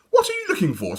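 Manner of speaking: lightly voiced girl; lightly voiced little girl. A narrator's reading. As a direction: ask sweetly. Dawn voiced.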